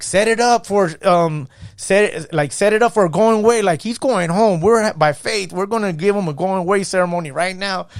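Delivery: rallying the room for a ceremony; excited announcement. Retold or imitated. Staff calling out for his going-away ceremony, excited.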